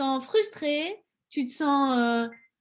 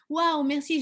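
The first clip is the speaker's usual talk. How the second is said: delighted wow; 4 semitones higher than usual. Shown as a demonstration. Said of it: "tu vas commencer à dire à ton cerveau".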